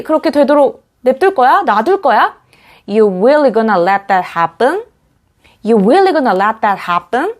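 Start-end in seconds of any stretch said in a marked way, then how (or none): 2.9-7.3 You really gonna call him said slowly, rising at the end; rising question. Shown as a demonstration. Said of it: "하시면 되고요".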